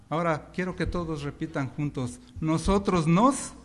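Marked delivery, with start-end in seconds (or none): 2.4-3.5 plain. Shown as a demonstration. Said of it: "No, más fuerte".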